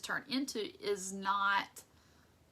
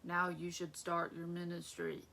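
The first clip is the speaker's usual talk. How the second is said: voice of God; 2 semitones lower than usual. Retold or imitated. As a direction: announce it slowly like God speaking. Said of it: "God was like".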